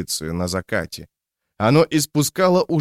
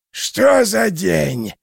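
wailing yell; 9 semitones higher, 3 dB louder, much slower than usual. A narrator's reading. Same character cry.

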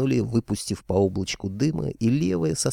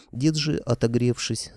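ordinary delivery

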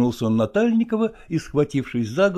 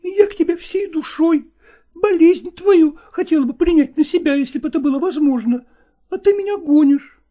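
high, hurt and louder; offended woman; 5 dB louder than usual. Acted. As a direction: ask it wounded, pitched up. Nastina hurt.

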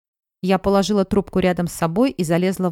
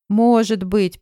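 through tears; 3 semitones higher, 4 dB louder, much slower than usual. Acted. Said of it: "проговорила она сквозь слёзы".

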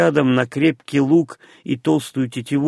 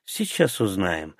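soft, low and unruffled; composed, lowered voice; calm reply; 5 semitones lower, 7 dB quieter than usual. A narrator's reading. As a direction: answer quietly, in no hurry to argue. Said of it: "спокойно ответил Джонстон".

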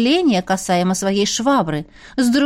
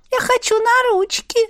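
high, slow little creature voice; cheeky otter voice; 9 semitones higher, slower than usual. Acted. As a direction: play a spoiled pet begging. Otter Ларинь speaks.

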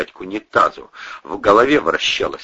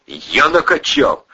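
indignant man; 7 semitones higher, 4 dB louder, slower than usual. A narrator's reading. Ковторанг возмущён.

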